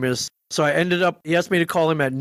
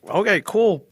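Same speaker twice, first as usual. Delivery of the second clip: high, eager okay cool; trying to sound calm but thrilled; excited; 7 semitones higher than usual. Retold or imitated. Excited reply to Kevin.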